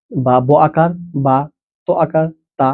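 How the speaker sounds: teacher sounding out "বা", "তা"; আ-কার উচ্চারণ. Shown as a demonstration. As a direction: spell out "বা" and "তা" with an open a. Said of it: "আকারে উচ্চারণটা হবে". (আ-কার দিয়ে "বা", "তা" উচ্চারণ)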